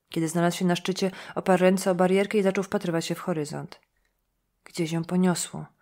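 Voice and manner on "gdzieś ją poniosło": slow, mumbled, words running together; slurred mumble. Acted. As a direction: mumble it slowly, half to himself. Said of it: "wybełkotał". (powolne, niewyraźne mamrotanie)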